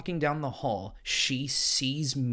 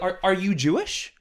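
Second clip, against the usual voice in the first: teacher impression, a bit higher, less hammed-up; milder mock teacher; 6 semitones higher, 4 dB louder than usual. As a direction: tone it down, awkward teacher question. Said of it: "It was more like".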